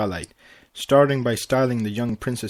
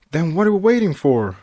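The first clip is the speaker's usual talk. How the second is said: high, loud eager question; bouncing with impatience; can't wait another second; excited; 6 semitones higher, 5 dB louder than usual. Acted. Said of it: "Pinkie said excitedly".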